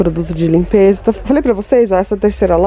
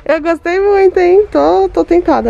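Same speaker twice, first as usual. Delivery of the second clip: excited delight; 11 semitones higher than usual. Real, not acted. Delighted by a decor find.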